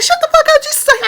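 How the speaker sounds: very high, loud squealed retort; mock angry yell. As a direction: yell back in an exasperated falsetto. Acted quarrel with the cousins.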